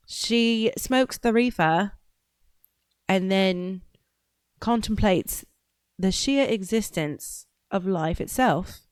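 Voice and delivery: mock-grand British narrator, measured with long pauses; British accent. Host narrating her own tangent, playful British accent. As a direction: slip into a lofty British accent, pausing for effect. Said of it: "having to chase off that accent".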